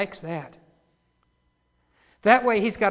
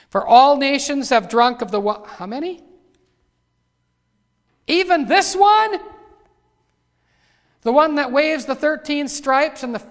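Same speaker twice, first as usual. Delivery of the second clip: loud scripture reading breaking into questions; full-force preaching; 4 semitones higher, 8 dB louder than usual. Real, not acted. Preacher asking if even this nation has fallen, in forceful preaching. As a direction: press the congregation with loud questions.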